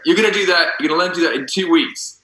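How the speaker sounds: insistent director with a lightly imitated New Zealand accent; Andrew Adamson. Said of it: "it's gonna be my best New Zealand accent".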